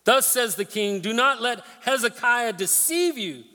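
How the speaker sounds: lightly voiced arrogant messenger; boastful spokesman. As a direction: sell the surrender like a smug envoy. Preacher voicing the boastful spokesman.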